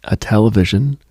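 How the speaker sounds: normal talking voice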